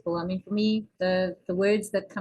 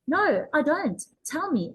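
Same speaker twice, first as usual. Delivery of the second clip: other me; 7 semitones higher, slower than usual. Acted. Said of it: "other me saying".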